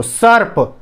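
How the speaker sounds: "सर्प" with a clear dental s; correct pronunciation. Shown as a demonstration. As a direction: start "सर्प" on s, never sh. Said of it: "ये ऐसे बोलते हैं इसको".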